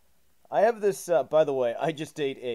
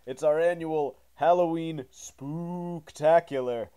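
announcer intro; 4 dB louder than usual. Acted. Reads the show intro.

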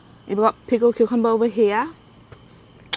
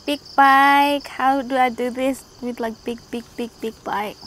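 barely opening the mouth; struggling to open wide; with a sore jaw; 3 semitones higher than usual. Real, not acted. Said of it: "I can't open my mouth wide".

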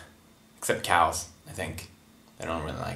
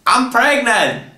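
excited announcement; 5 semitones higher, slower than usual. Pretend. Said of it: "Tell Matsuya that you're pregnant".

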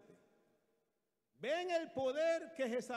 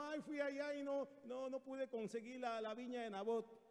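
mildly mopey mock complaint; a touch of defeated whining; dejected king; 2 semitones higher, 5 dB quieter than usual. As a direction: lightly act out a downcast husband's excuse. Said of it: "llegó todo agüitado".

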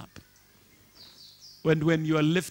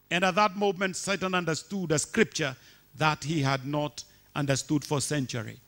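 normal talking voice

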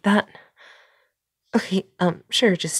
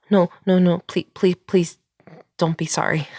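quick repeated pleading, a little louder; insistent, stumbling reassurance; urgent pleading; 4 dB louder than usual. Acted. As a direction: cut in to stop an apology. Urgently stopping an apology.

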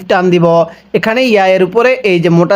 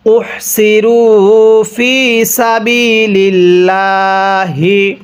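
slow chanted Arabic recitation; ধীরে তিলাওয়াত; Quran recitation; slower than usual. Shown as a demonstration. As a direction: recite it slowly like tilawat. Quran recitation demo in lesson.

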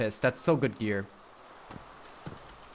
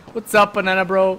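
calling out; 5 semitones higher, 8 dB louder than usual. Real, not acted. Greeting a teammate loudly in-game.

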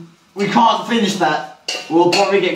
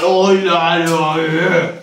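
mock bloke; 3 semitones lower, slower than usual. Acting out bloke coming in.

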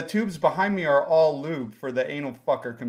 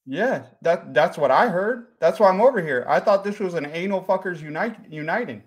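put-on light comic Jacksonville accent. Lost visitor explains himself to the host, light Jacksonville accent. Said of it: "a good Jacksonville accent?".

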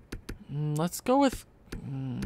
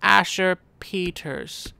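slow, savoring the name Asher Peters like a fond parent; a light hint of a doting dad; mock proud parent; slower than usual. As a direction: say "Asher Peters" slowly, as if naming your son. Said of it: "you look at your son and go".

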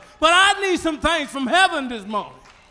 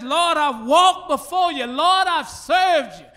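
louder, slower pleading prayer; fervent prayer voice; 3 semitones higher, 5 dB louder, slower than usual. Acted. Hezekiah praying to the Lord, louder and slower. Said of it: "He said".

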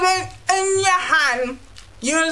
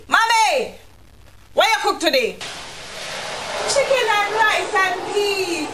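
put-on child calling mommy; 6 semitones higher than usual. Kid calling mother again.

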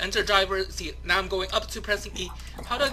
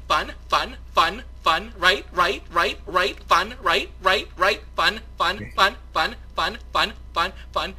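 same word over and over in an even beat; deliberately annoying; slower than usual. Pretend. Player pestering friend to agree it's fun, deliberately annoying. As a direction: pester with mechanical repetition. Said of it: "me being annoying".

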